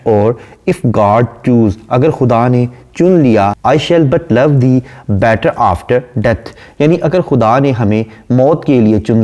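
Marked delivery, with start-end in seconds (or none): 0.7-1.7 slow, measured poem reading; unhurried English verse reading; poem recitation. Shown as a demonstration. Reads poem line slowly. 3.7-6.5 slow, measured poem reading; unhurried English verse reading; poem recitation. Shown as a demonstration. Reads poem line slowly.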